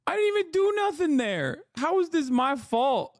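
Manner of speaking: squeaky sped-up cartoon voice; high chipmunk squeak. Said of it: "Cutie reacted to my chipmunk voice".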